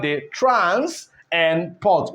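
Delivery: "trans" and "port" slowly, as two separate pieces; teacher slowly isolating "trans" and "port"; broken into syllables. Shown as a demonstration. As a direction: set "trans" apart from "port" with a pause. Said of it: "We break them".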